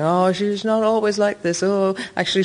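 mock apology for a colleague; imitated apologising. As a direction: imitate an apologetic co-star covering for someone. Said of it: "just kept apologising".

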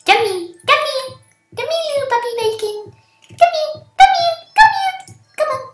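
sing-song calls rising very high; climbing come here. Acted. Calls player, pitch climbing.

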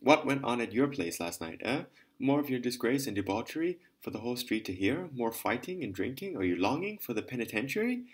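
angry berating. Acted. Lieutenant berating the lady.

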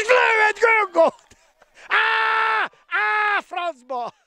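high shouted cry; excited sports commentary. Real, not acted. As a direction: cry out at the goal. Goal shot, cry of dismay.

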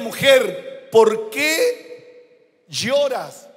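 drawn-out, gentle angel's question; tender question. Acted. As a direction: ask it slowly, like comforting a mourner. Angels ask the weeping woman. (pregunta lenta y tierna)

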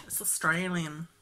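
low, drawn-out mock Australian; Australian accent. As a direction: put on a playful Aussie accent. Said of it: "That's my Australian accent".

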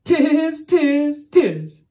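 loud monkey cries, high then dropping; high, loud storybook monkey chant; chattering monkeys. A narrator's reading. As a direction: mimic cheeky monkeys jeering back. Monkeys mimic the angry peddler.

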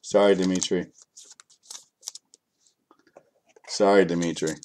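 low, soft, let-down apology; deflated apology. Real, not acted. Card breaker apologises to Dimitri for the letdown, deflated. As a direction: drop right down after the hype.

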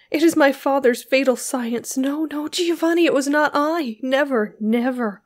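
high, loud, urgent denial, easing at the end; shrieked protest. A narrator's reading. Beatrice denying to Giovanni that she did it, shrieking. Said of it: "shrieked Beatrice".

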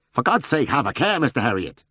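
gasped plea. A narrator's reading. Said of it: "he gasped at last".

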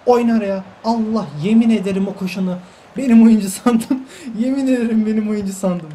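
loud, high, half-laughing exclamation; excited disbelief. Real, not acted. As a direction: burst out at the mix-up. Laughing at his own mistake.

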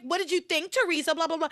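gloating Gwen. Retold or imitated. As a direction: imitate someone rubbing it in. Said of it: "like, starts to gloat".

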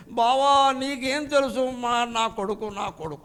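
imitated wail, starting high and sinking away; mock weeping. Arjuna lamenting his son to Krishna, acted weeping. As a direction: act out a grieving cry that fades out. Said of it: "అని ఏడుస్తున్నాడు".

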